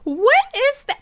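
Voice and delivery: high, loud disbelief; outraged what is that; incredulous. Real, not acted. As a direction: scoff at it in disbelief. Mocking the caption in disbelief.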